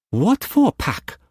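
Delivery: high, slow startled question. A narrator's reading. Mei Mei startled by Struan's order, high voice. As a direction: caught off guard, high. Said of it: "she asked, startled".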